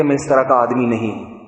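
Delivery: lightly voiced husband, unruffled; very calmly. Husband calmly denies his wife's complaint before the preacher. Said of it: "وہ بڑے آرام سے کہتے".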